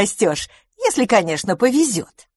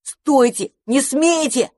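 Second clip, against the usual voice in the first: shouting; 8 semitones higher, slower than usual. A narrator's reading. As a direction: yell at them to stop. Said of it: "закричал мышевраг".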